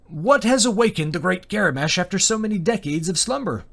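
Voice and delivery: high-pitched, carefully controlled question; a touch of nerves held in check; suppressed fear. A narrator's reading. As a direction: address a dragon while hiding your fear. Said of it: "suppress the fear and trembling in his voice".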